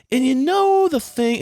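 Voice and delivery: high, slow mock wife voice; mock chatty wife. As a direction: pitch it way up and drag it out. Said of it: "they're just like".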